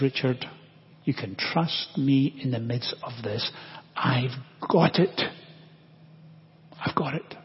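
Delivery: quietly reassure, pausing between phrases; gentle reassurance. Retold or imitated. God to Richard in the midst of trouble, gently reassuring.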